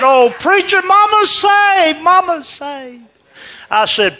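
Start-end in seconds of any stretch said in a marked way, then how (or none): 0.0-3.0 high, loud, drawn-out rejoicing; overjoyed outburst. Retold or imitated. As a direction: cry out the good news at full voice. Daughter bursting with news, grabbing preacher.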